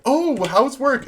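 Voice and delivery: cheerful drunk girl voiced high and sweet; mock girly voice. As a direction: squeak it out like a bubbly stranger. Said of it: "She's like".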